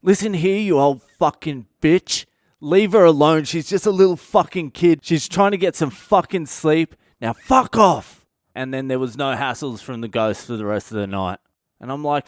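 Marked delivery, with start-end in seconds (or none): 0.0-8.3 loud, high, fierce telling-off shouted into the dark; furious yell. Retold or imitated. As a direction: yell at the ghost to back off, all fury. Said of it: "just yells it into the darkness".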